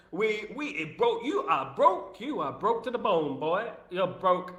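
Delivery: playful high-pitched taunt; sing-song taunt. Pretend. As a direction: tease them that they're broke, way up high. Sing-song taunt about being broke.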